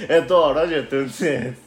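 mock abrupt plug, a touch forceful; abrupt, scary plug. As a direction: imitate a partner suddenly butting in with a plug. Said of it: "めっちゃ怖かった、".

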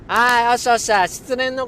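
loud, high cheer; pumped up. Real, not acted. Cheering himself up after recalling a breakup. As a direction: psych yourself back up. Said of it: "テンション上がってきた".

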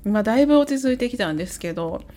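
tired hungover voice; speaking while hungover. Real, not acted. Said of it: "今日一日二日酔いでずっと頭痛かった".

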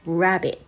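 "Rabbit" starting on a pursed う. Shown as a demonstration. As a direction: slide from う into the R of "Rabbit". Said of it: "最初、うスタートね".

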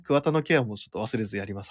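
normal talking voice

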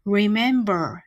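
remember with first and last r rolled. Shown as a demonstration. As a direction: roll the r's in remember slowly. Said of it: "を巻き舌にします". (rememberのRを巻き舌でゆっくり)

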